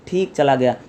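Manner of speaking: a downcast, half-hearted answer; dejected. Shown as a demonstration. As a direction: let the voice sink, mildly deflated. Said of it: "तो बड़े मुरझाए बोलेंगे".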